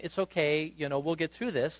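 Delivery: softly voiced, understated reassurance; mock comforting. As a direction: offer a quiet imitation of consoling someone. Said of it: "instead of comforting Mary and saying".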